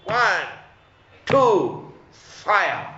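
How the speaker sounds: starter's call. Pretend. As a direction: shout the countdown like a starter. Race start call in a lesson.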